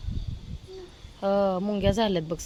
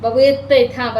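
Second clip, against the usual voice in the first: imitating her toddler; 3 semitones higher, 7 dB louder than usual. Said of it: "अशी म्हणती ना".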